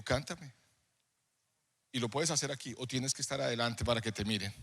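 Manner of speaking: low, soft divine question; gentle voice of God. Retold or imitated. God answers the crying young singer, gentle. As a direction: speak low and quietly, as God to one person. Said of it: "haber escuchado la voz de Dios de decirme".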